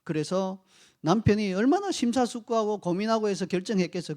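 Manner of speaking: ordinary talk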